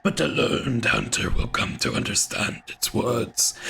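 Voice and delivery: a lightly voiced old hunter, raspy and half-whispered; a hint of a weathered hunter, rasping in a breathy half-whisper. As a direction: growl it out like an old hunter in the dark. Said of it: "I can't do this voice for very long".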